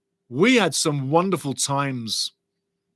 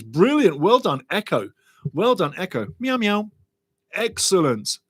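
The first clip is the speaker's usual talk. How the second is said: ordinary delivery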